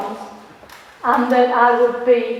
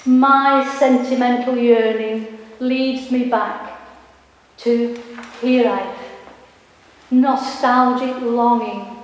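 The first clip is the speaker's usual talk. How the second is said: poem recital. Acted. Poet reads her poem aloud.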